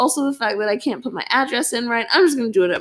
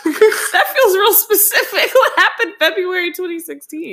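high teasing laugh through words; 10 semitones higher, 3 dB louder than usual. Real, not acted. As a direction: tease while laughing.

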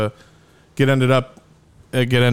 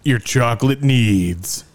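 ad read voice; slower than usual. Pretend. Mock ad read.

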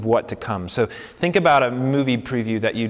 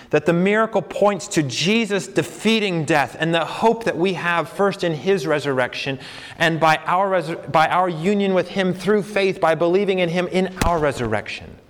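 fervent, higher-pitched sermon delivery; impassioned preaching; 6 semitones higher than usual. Real, not acted. Preacher linking the miracle to our resurrection, impassioned. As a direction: press the hope home with conviction.

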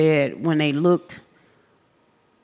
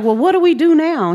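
retold helplessness; 10 semitones higher, 3 dB louder than usual. Retold helpless question to neighbor.

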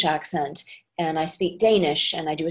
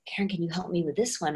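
retold hushed plea; 5 dB quieter, faster than usual. Friends asking her a favour.

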